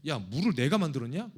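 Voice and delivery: loud, high, exasperated outburst at the people; indignant Moses rant. Pretend. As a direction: vent like a leader fed up with complaints. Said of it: "제가 만약 모세라면요, 그랬을 것 같아요".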